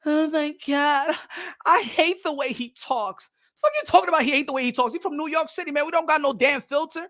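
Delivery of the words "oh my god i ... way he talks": slow, prissy complaint; mock the whiny critics; slow and fussy, mocking the critics. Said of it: "Everybody is so, like, bitchy".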